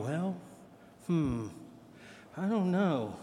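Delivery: soft, stalling "Well, hmm" with long pauses; a disciple stuck for an answer, trailing off softly; hesitant, stumped. Retold or imitated. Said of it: "hear the pregnant pause going".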